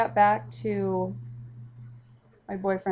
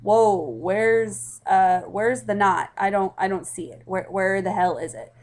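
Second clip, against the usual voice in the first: stunned disbelief; 5 dB louder than usual. Retold or imitated. Staring at the test, loud stunned disbelief. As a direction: retell your own stunned face at the test. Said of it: "my face at this point was just like".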